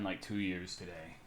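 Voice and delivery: ordinary delivery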